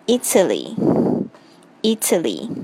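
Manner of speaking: Italy stressed on the first I, slow. Shown as a demonstration. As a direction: lean on the I of Italy. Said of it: "注意这个重音是在I上面".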